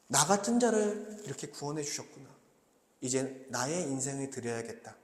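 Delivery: softly voiced inner gratitude; grateful reflection. Believer responding to God's grace with thanks, softly grateful. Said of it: "감사와 찬송이 터져 나올 때".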